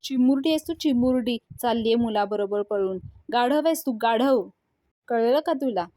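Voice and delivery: father yelling at his daughter, furious; angry father. Acted. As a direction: shout down a daughter who talks back. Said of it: "Chandrakant खूप चिडतात आणि म्हणतात".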